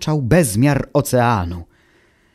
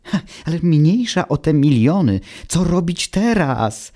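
calling out; 6 semitones higher than usual. Acted. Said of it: "zawołał Automateusz".

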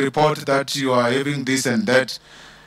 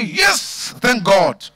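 mock cheerful thanks; much slower than usual. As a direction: play the absurdly happy parent. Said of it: "you cannot say".

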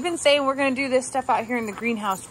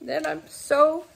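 softer, tearful voice; choked up with gratitude; happy tears; 4 semitones higher, 4 dB quieter than usual. Real, not acted. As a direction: speak through happy tears. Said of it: "sitting here in tears right now".

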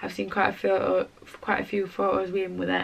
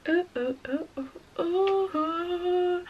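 high, startled little cries; surprised; 9 semitones higher, much slower than usual. Real, not acted. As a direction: yelp as something slips. Reacting to something on camera.

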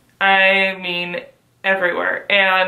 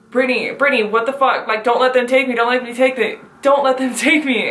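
imitating a frightened friend, higher-pitched; mock-panicked begging, pitched up; scared pleading; 4 semitones higher, faster than usual. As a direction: retell her panicked plea in a raised pitch. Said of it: "she was so fucking scared".

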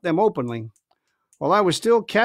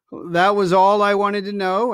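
slow, casual doctor's voice; a lightly voiced doctor acting unconcerned; 3 semitones higher, 3 dB louder than usual. Doctor Livesey covering for Jim on deck, slow and offhand.

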